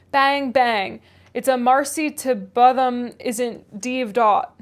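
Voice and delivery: slow broad Yorkshire growl; gruff old Yorkshire servant. Acted. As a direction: grumble it out like a crusty old farmhand. Reads Joseph's dialect lines.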